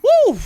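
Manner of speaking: loud, high-pitched woo; high whoop. Real, not acted. Player reacts to a close moment, high whoop. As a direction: let out a sharp, high whoop.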